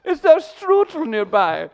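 slow, very high put-on voice; high-voiced visitor. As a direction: ask politely in a squeaky foreign-visitor voice.

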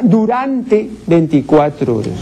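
"durante" set out firmly before "veinticuatro horas"; stressed correct word. Shown as a demonstration. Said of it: "En castellano se dice". (énfasis en "durante", la forma correcta)

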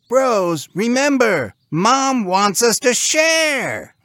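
high, loud pig bro; squeaky cartoon sibling reminder; reminding pig. A narrator's reading. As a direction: remind your brothers in a slow squeal. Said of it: "their yellow-shirted sibling reminded".

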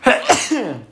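real sneeze coming on; stifled sneeze, sharp gasp; sneezing. Real, not acted. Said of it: "vou espirrar só aqui um breve segundo".

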